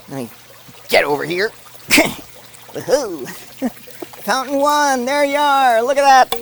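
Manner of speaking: ordinary delivery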